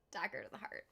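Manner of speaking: fast, unvoiced whispered aside; breathy whisper. Real, not acted. Streamer whispering to chat after a sad scene. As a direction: exhale it like a wound.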